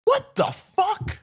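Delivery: high, slow incredulous cry; stunned disbelief. Real, not acted. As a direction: drag it out in total disbelief. Shocked at the news story.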